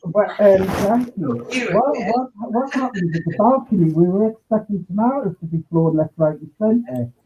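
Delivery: muffled, like through a wall. Real, not acted. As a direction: voice muffled by the headset. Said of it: "you sound like you're muffled".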